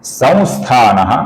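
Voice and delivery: संस्थानः said slowly, each syllable apart; slow Sanskrit recitation. Shown as a demonstration. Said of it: "अब यहां पर ध्यान से देखिए". (धीमा स्पष्ट उच्चारण)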